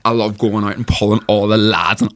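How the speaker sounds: slow, lightly put-on Derry lad voice; a hint of a Derry lad showing off; imitating Derek. Recalling her teen Big Brother audition, slow mock Derry lad. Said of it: "imitating him".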